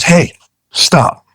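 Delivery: high-pitched imitation of a fed-up captain; mock cutting-off. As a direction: cut someone off mid-complaint, retold. Fed-up captain cuts client off.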